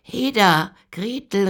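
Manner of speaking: put-on loud, high shout from the old witch; impatient witch yelling for Gretel; witch calling out. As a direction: bark across the house to Gretel. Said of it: "rief sie".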